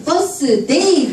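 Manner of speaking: slow, high-starting Gyeongsang grandmother; stretched Gyeongsang lilt; Gyeongsang dialect. Acted. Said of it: "경상도 할머니가".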